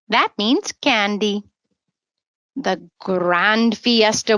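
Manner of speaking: put-on gentle sing-song read-aloud for kids; storybook reading. A narrator's reading. Storyteller reading a rhyming book to children, sing-song. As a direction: read the rhyme to little listeners.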